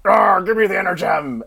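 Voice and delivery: mock monster snarl, far from his own voice; hammed-up beast demanding the gem; villain growl. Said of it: "and he's like".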